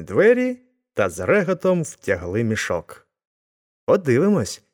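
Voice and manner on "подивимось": higher-pitched eager exclamation; excited cry. A narrator's reading. Everyone rushes to untie the sack, excited cry. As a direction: call out as an excited crowd. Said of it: "закричали всі".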